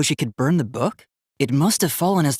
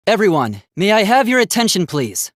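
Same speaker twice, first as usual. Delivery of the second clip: polite call; 2 semitones higher than usual. Acted. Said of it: "I just wanted everyone to listen".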